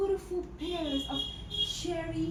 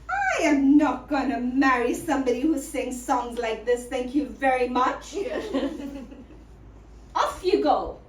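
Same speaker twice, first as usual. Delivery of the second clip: firm dismissal; 2 semitones lower, 4 dB louder than usual. Acted. She dismisses the singer.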